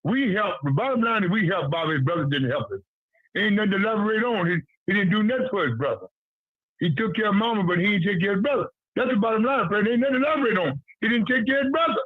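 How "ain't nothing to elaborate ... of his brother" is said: higher-pitched, rapid-fire insistence; insistent. Real, not acted. Man refusing to elaborate on a brother's neglect, insistent. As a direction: press the point, fast and raised in pitch.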